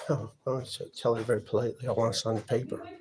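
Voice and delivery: soft, sighing, polite restraint; quiet, careful and polite, holding back; speaking softly. Real, not acted. Tenant to the housing staff, softly and politely. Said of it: "Let's speak softly to these people".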